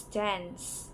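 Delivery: "dance" slowly with the flat A of cat; American dance. Shown as a demonstration. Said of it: "the A in dance is often pronounced as A in cat".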